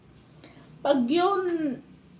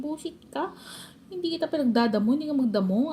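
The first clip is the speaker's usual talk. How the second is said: higher, fast mock scolding; imitating angry mother; 5 semitones higher than usual. Mother scolding her child over weeding, mock angry fast. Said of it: "Galit na galit".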